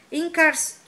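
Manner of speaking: high, loud cut-off roar; roared spell. A narrator's reading. Harry roars a spell at Snape, loud and cut off. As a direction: hurl it at him, broken off. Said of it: "urrou Harry".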